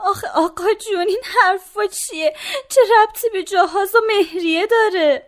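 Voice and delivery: daughter pleads with her father through tears; crying. Acted. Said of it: "گریه نکن جانم".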